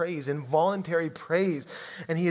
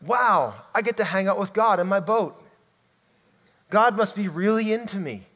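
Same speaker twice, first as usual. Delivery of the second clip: higher, self-pleased mock wonder; mock starstruck; 4 semitones higher, 4 dB louder than usual. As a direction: play the impressed fan hanging out with God. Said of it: "His response wasn't".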